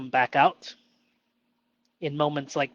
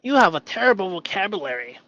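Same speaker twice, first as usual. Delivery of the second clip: mock inner critic; 4 semitones higher, 5 dB louder, faster than usual. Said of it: "So I'm gonna try that out".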